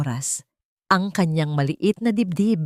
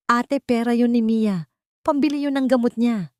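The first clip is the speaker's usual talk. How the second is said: shouting; 6 semitones higher than usual. A narrator's reading. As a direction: yell it at the sister who stole the medicine money. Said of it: "Sigaw ni Sofia".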